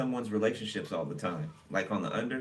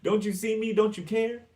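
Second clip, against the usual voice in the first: higher, louder whiny wail; mock pity-seeker; 12 semitones higher, 4 dB louder than usual. Imitating an attention seeker, high, loud whiny plea. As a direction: plead even harder for attention. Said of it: "Somebody's like".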